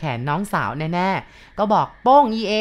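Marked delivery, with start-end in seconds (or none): 2.0-2.5 calling out caught. Acted. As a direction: drag it out loud like catching her in hide and seek. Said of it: "ก็เลยเอ่ยขึ้นแบบนี้". (ตะโกนเสียงดังช้าๆ อย่างจับได้)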